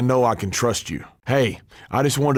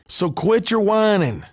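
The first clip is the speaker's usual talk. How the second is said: higher, cutting put-down; scornful snap; 8 semitones higher than usual. Acted. Veteran scolding a sore loser, higher and scornful. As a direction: shut him up with contempt.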